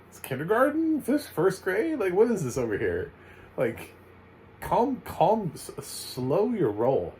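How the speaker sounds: high, squeaky outrage that slows down at the end; incredulous disbelief. Retold or imitated. Reviewer scoffing at a school over a six-year-old, high incredulous voice. Mocking the school's strict expectations.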